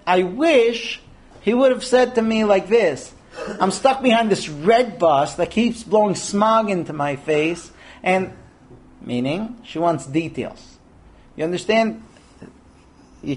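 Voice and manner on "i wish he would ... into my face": laughing retelling. Retold or imitated. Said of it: "She said".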